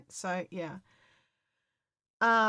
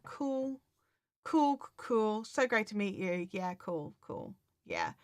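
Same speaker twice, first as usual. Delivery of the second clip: professional; slower than usual. Acted. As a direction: act casually composed, damping down the excitement. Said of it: "just be professional".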